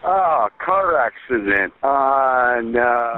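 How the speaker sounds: slurring. Real, not acted. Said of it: "He's slurring his words".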